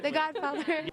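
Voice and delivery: The Godfather stated with confident emphasis on Godfather; confident answer. Pretend. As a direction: say The Godfather firmly, landing on Godfather. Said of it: "Say it confidently".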